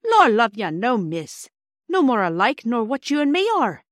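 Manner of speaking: put-on a proud cockney porter lecturing children. Porter Perks explaining engines to the children in a hearty Cockney accent.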